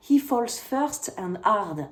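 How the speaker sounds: slow English phrase in a French accent; English with a real French accent. Real, not acted. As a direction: read the English slowly, keeping your French accent. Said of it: "mon accent anglais, on n'en tient pas compte".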